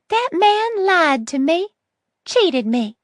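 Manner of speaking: put-on high, harsh and bitter old woman. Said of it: "Her voice was harsh".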